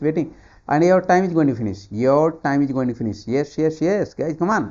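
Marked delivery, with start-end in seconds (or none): 0.7-3.3 urging reminder. Real, not acted. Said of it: "urging students on timer".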